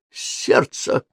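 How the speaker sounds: breathless gasping words; panting. A narrator's reading. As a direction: gasp it out, short of breath. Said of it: "пропыхтела Софи".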